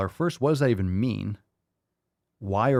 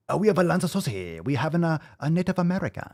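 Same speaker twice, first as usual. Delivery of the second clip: lightly put-on Asian accent, higher; a hint of an Asian accent, played for laughs; mock Asian accent; 6 semitones higher, faster than usual. Announcing the next video in a mock Asian accent. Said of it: "saying that with a Asian accent".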